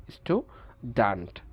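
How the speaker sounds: American স্টুডেন্ট slowly, as STOO-dant; slow, no Y glide in স্টুডেন্ট; American pronunciation. Shown as a demonstration. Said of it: "ওরা বলে". (স্টুডেন্ট-এ উ, American)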